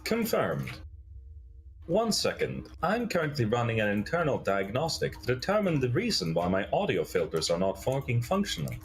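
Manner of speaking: stilted robot voice, swooping pitch; formal machine status report; robot Adam. Acted. Robot announces an internal diagnostic, stilted mechanical delivery.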